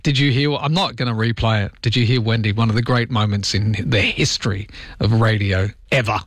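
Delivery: ordinary delivery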